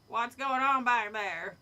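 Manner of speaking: loud, slow, harsh call. A narrator's reading. Shopkeeper calling harshly to the kids at the back. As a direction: bark it across the shop. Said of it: "Missus Jack's harsh voice rattled the shelves".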